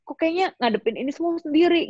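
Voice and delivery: high, hurt lament; a high hurt whine at being left alone; bitter complaint. Retold or imitated. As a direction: complain that nobody came. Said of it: "Aku bilang".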